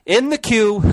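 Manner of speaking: high, drawn-out call breaking into laughter; loud joking interjection. Real, not acted. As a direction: sing out "in the queue" loudly, stretched. Joking aside about future episode.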